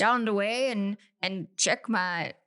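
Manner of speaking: amateur Irish accent, trailing off; playful, hesitant Irish accent. Shown as a demonstration. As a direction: improvise a rough Irish brogue. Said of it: "Can you do an Irish accent?".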